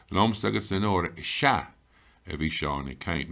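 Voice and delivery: "Sha" punched, then a drop in level; stress on Sha. Shown as a demonstration. Teacher showing learners how to stress "to us", with emphasis on "Sha". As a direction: land firmly on "Sha", then ease off. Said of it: "we want to come along and stress".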